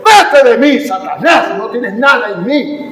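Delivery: loud, high shouted commands; commanding rebuke. Acted. Preacher showing believers how to rebuke the devil and sickness, commanding shout. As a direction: cast it out with punched, forceful phrases. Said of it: "Mire al diablo y dígale".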